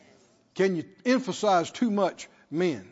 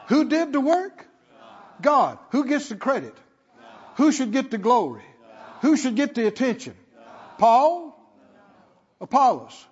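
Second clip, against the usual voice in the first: loud, raised rhetorical questions; emphatic preaching; 5 semitones higher, 5 dB louder than usual. Real, not acted. Preacher challenges congregation on who gets the glory, emphatic preaching. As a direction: press each question on the congregation.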